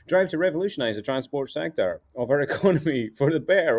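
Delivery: put-on light Cockney accent; Cockney wide boy pitch; a hint of Cockney salesman; Cockney geezer. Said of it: "Cockney rhyming slang type person".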